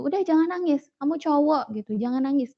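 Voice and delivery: retold motherly scolding. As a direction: imitate a mother dismissing tears. Mother scolding crying son, retold.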